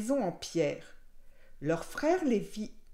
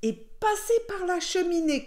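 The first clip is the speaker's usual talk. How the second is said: raised storybook villain voice; shouted threat; 8 semitones higher than usual. A narrator's reading. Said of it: "cria le loup".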